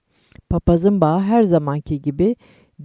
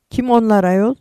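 higher-pitched, mildly curious question; 6 semitones higher, 3 dB louder than usual. A narrator's reading. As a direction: ask with a touch of eager curiosity. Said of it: "diye sordu Gülay merakla". (meraklı bir soru tonuyla)

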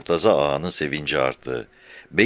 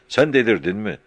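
angry; 5 semitones higher, 3 dB louder than usual. A narrator's reading. Halil berates Murtaza.

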